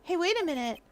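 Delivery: perky, wondering game character; lightly voiced curious character. Game character discovering a chest of little bottles, curious. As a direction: read it as an eager snooper finding treasure.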